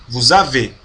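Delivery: vous avez as one word with Z; linked liaison. Shown as a demonstration. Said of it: "como se fosse uma palavra só". (vous avez numa palavra só)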